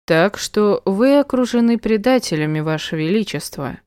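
put-on slurring drunken call; drunk shout. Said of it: "пьяно крикнул Эдгар".

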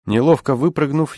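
usual speaking voice

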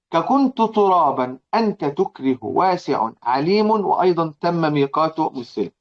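slow, measured chanting of the poem line; verse recitation. Acted. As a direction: recite the verse slowly and evenly. Recites the poem's example line. (تلاوة بطيئة لبيت الشعر)

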